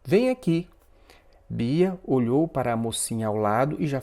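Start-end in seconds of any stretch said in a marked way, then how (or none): 0.0-0.7 exclaimed call. A narrator's reading. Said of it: "exclamou a Bia".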